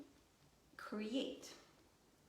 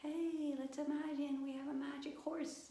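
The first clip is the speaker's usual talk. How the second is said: put-on higher-pitched, playful invite to a child; playful invitation; 7 semitones higher than usual. Inviting a child to imagine a magic horse, playful. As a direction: coax a child into make-believe. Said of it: "if I said".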